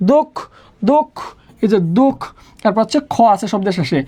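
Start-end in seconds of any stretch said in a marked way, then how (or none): 0.1-2.2 "দোক" alone as "dok", closed on the k; syllable demonstration. Shown as a demonstration. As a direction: repeat "দোক" as a separate syllable, pausing after each. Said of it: "উচ্চারণটা কি হবে?".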